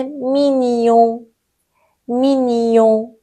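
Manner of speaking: مینیون with the final N through the nose; slow مینیون, ending in a nasal vowel; nasal French ending. Shown as a demonstration. Teacher shows students French mignon, مینیون with nasal end.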